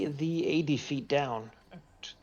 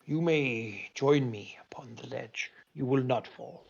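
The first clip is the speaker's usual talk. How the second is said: whispering wind spirit. Acted. Wind spirit speaks to party.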